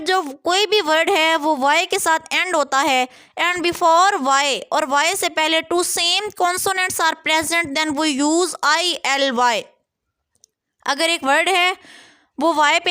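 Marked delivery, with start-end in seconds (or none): 3.4-9.6 spelling rule read slowly for students; slow dictation. Shown as a demonstration. Teacher to students reading the rule, slow dictation. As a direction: dictate each word slowly and evenly.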